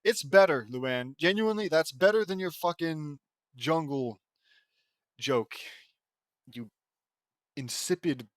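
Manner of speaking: angry rant. Real, not acted. Ranting at the fanfic author.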